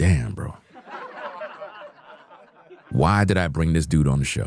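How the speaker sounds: swooping, animated, rueful, self-regretful. Narrating a clip, voicing what Corey thinks: imitating Corey. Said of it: "He's like".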